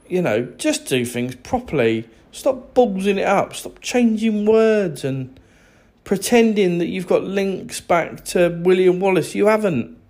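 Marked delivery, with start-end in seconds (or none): 2.3-10.0 ranting, exasperated. Real, not acted. Ranting at Americans.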